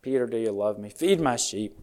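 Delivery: soft, gentle retold question; quietly tender, quoting Jesus to Peter; loving. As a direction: ask it lovingly, softly. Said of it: "so lovingly said".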